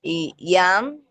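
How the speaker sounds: "mun" drawn out slowly before "puerta"; teacher slowing down on "mun"; slow demo. Shown as a demonstration. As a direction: spell out the word slowly for the class. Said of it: "son dos palabras muy diferentes".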